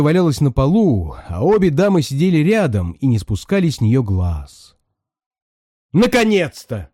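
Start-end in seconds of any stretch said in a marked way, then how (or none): 5.9-6.9 high, eager exclamation; high excited outcry; shouting together. A narrator's reading. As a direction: cry out in relief. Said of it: "закричали они обе сразу".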